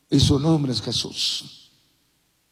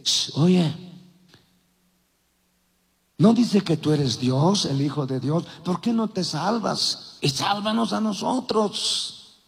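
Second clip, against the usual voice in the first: ironic taunt. Retold or imitated. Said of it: "con una mirada irónica".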